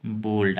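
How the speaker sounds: बोल्ड with a half ल and a full ड. Shown as a demonstration. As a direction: clip the ल and land on ड in बोल्ड. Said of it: "आधा ल और पूरा ड". (बोल्ड में आधा ल और पूरा ड)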